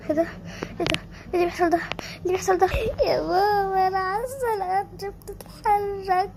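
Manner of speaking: cling to mama in fear; scared little girl crying for her mother; frightened child. Acted. Child scared as ground shakes.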